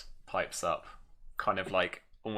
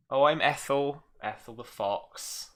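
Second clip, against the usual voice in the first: put-on Norfolk country accent; 4 semitones higher, 3 dB louder, slower than usual. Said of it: "My Norfolk accent is clearly not good enough".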